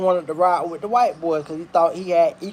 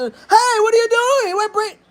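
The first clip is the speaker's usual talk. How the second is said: high, fake-polite white bystander; mock white guy voice. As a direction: squeak it out like a startled white onlooker. White people rushing to intervene.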